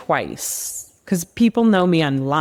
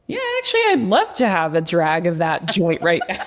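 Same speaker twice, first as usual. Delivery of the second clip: retold craving; 2 semitones higher than usual. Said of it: "I was like".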